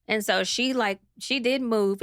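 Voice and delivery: usual speaking voice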